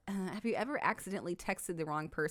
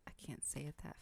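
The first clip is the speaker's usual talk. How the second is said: very soft mimicking murmur; imitated handsome refusal; 3 semitones lower, 16 dB quieter than usual. Wife imitating husband's refusal, soft mock-handsome voice. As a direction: mimic his smooth refusal very quietly. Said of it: "You leaned your head over and said".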